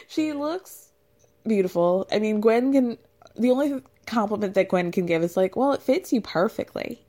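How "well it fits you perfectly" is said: put-on Louisiana Southern accent. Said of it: "I can't do a Louisiana Southern accent".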